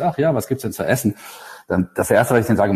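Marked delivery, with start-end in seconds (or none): 0.0-1.2 higher-pitched, lightly acted spouse answer; mock ad reply. Creative mocking junior writers' spot dialogue, lightly acted cliché reply. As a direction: parody a stock radio-spot reply. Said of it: "Und die Antwort ist".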